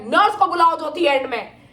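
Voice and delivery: loud mock yell for the nurse; doctor yelling. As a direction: bark the order, loud and high. (गुस्से में ज़ोर से चिल्लाते हुए)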